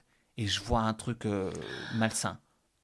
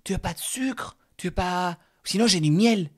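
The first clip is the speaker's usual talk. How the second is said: higher, louder pushy host voice; mock insistent offer, pitched up; imitating Momo; 10 semitones higher, 7 dB louder than usual. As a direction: press him to take honey, sweetly insistent.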